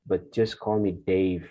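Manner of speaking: slow, careful reading of a conversation; model dialogue reading. Acted. Teacher reading a sample dialogue aloud for students. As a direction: read both roles slowly and clearly.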